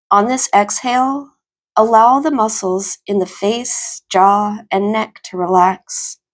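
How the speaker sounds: calm, even meditation voice with long pauses; guided meditation. Acted. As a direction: ease them into stillness, phrase by phrase.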